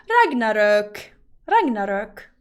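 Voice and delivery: Ragnarök low, with hard g and ö; Finnish pronunciation. Retold or imitated. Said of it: "let's try Finnish".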